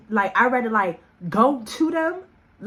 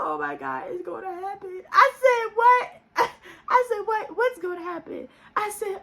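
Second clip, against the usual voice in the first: much higher mock panic, laughing through it; panicked laughing; 7 semitones higher than usual. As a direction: squeal in fake terror, half laughing. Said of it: "I just started dying laughing".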